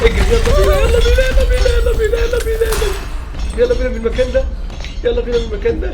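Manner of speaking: high frantic yelling; panicked urging. Real, not acted. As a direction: urge the escape in a screeching panic. Urging himself to escape. (صراخ مذعور للهروب)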